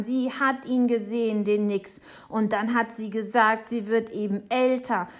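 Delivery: put-on loud, insistent child's protest; shouting. A narrator's reading. Boy giving Papa his proof, loudly insistent. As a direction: argue it loudly, desperate to be believed. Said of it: "schreit Jonathan".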